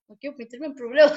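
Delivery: giggling repeat of the line; half laughing, half whining; laughing through it. Real, not acted. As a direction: say it again while cracking up.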